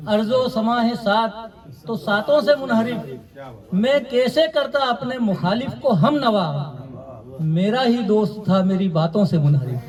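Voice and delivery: measured Urdu verse delivery, falling line ends; poetry recitation. Acted. Poet reciting his couplets to a mushaira audience, measured recitation. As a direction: recite the couplet in set phrases with pauses.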